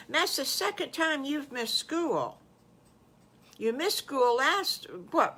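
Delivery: a hint of a concerned mother questioning a child; mildly scolding, softening towards the end; lightly played mum, fussing over a little one; lightly voiced mother pig. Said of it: "That was from Missus Piggly".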